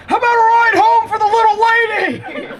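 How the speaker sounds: high, loud cheesy flirt; cheesy pickup line. Retold or imitated. Comic climbs into the car with a loud cheesy flirt. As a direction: lay on a hammy come-on.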